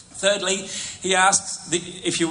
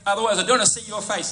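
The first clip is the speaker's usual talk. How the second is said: higher, stern dad laying down the law; stern banishing father; 6 semitones higher than usual. Pretend. Father sending the prodigal son away, stern and high. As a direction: cast him out to the back paddock, coldly.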